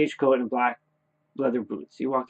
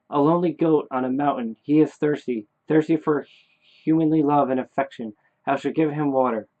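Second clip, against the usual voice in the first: deliberate, slightly raised chant-like reading; recited incantation; 3 semitones higher than usual. Acted. Dead son gives Daddy lines to read, deliberate recitation. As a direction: recite each phrase separately with weight. Son's verse to be read aloud.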